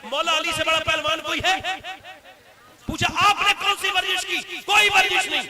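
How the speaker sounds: high, rising to a loud declamation; impassioned preaching. Acted. Preacher telling of Ali's thousand nightly prayers, impassioned. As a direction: preach it with mounting force, stretching the last phrase.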